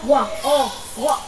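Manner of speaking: "Walk" with an O vowel and no l; silent L. Shown as a demonstration. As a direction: skip the L in "Walk" and show the O alone. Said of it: "Bỏ qua âm L".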